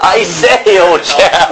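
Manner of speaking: high plummy I say; posh British accent. Pretend. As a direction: play a toff, high and bright. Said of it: "It's British".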